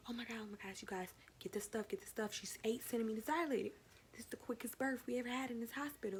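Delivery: hushed, hurried flustered nurse. Retold or imitated. Nurse to her workers, hushed hurried panic. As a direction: rush the staff in a hushed panic.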